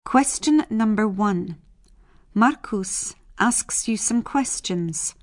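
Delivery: ordinary talk, nothing marked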